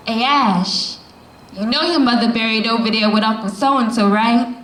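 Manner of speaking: a light, offhand quote, quick; nonchalant. Retold or imitated. A relative mentioning the cemetery in passing, lightly offhand. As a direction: toss it off casually, as if it's nothing. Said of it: "nonchalantly asks me".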